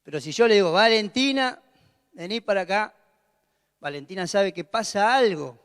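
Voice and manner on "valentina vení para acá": firm, no-nonsense summons; stern call. Shown as a demonstration. Father summoning his youngest daughter, firm and serious. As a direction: call her over like trouble is coming. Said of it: "cuando yo la llamo con otro tono".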